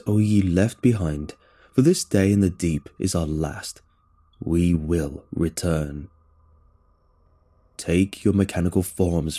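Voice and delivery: low, slow, grave summons; lightly voiced alien prophet urging followers; a hint of a booming machine voice; alien leader rallying.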